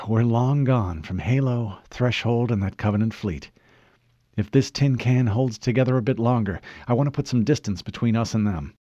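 sigh, then a mildly tired report; tinged with weariness. Acted. Cortana reports the escape to the Chief, mildly weary. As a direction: let a touch of fatigue into it. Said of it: "her voice sounded tinged with weariness".

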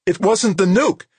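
very high, loud jubilant cry; elated high-pitched shout; exultant. A narrator's reading. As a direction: exult in the news, voice soaring. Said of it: "Ginny Anson's voice sounded exultant".

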